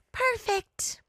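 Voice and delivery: high delighted squeal; clap-happy cheer; bright exclamation. Acted. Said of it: "the woman exclaimed".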